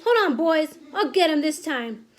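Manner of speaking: loud, startled shout, starting high and dropping to resolve. A narrator's reading. Cook with a mouse up his trouser, shouting. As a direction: exclaim in alarm, then rally the others. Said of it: "the cook shouted".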